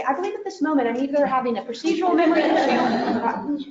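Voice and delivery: laughing through a mock formal line; laughing, jokingly formal; mock clinical child. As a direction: poke fun at a kid sounding like a textbook. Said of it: "Does Johnny raise his hand and say".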